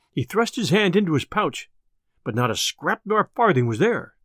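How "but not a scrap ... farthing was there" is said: ordinary delivery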